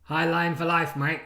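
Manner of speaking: lightly mimicked Australian football manager; a hint of a manager's stock slogan, mock earnest; Ange Postecoglou. Streamer mocking the Spurs manager's motto, light impression. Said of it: "Ange Postecoglou is gonna get that put on his gravestone".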